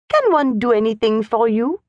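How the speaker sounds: put-on gentle offer with a French accent; kindly. A narrator's reading. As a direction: ask kindly, like a governess. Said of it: "asked the French governess kindly".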